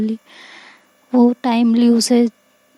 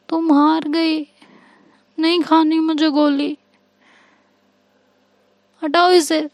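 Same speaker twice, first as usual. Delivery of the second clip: put-on stubborn childlike refusal; 6 semitones higher than usual. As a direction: pout it out like a child who won't take her pill. Ishika refuses the pill.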